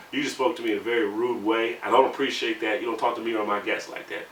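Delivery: lightly voiced proper white-guy tone; a hint of a polite, formal white guy; mild put-on proper voice; white boy voice. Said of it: "I had to put on my white boy voice".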